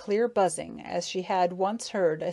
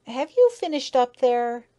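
louder, higher-pitched question; raised, higher voice; calling up; 5 semitones higher, 6 dB louder than usual. A narrator's reading. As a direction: call up without looking. Frightened bee calls up to eater.

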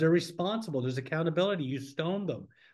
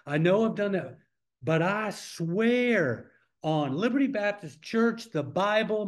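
higher-pitched, drawn-out pleading vow; emphatic mock oath; 4 semitones higher than usual. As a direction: act out an overblown sworn promise. Mimics someone swearing an oath.

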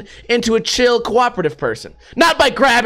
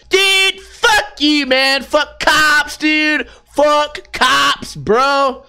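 put-on high, bratty skater kid ranting and swearing; a punk kid yelling he won't leave, then cracking; whiny teen skater; 6 semitones higher, much slower than usual. Skater kid ranting at a library guard, high and whiny.

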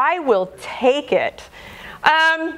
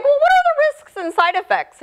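anxious retold question; faster than usual. Retelling her own question to doctor.

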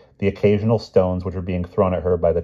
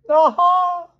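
loud, triumphant hoot; booming cry; 6 dB louder than usual. A narrator's reading. Stout lady greets the company, booming. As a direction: boom it out like a hearty stout lady. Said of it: "cried the stout lady in a deep, booming voice".

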